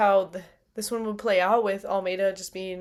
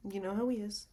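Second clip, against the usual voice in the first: ghoulish voice; 11 dB quieter than usual. Pretend. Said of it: "I'm going full ghoul mode".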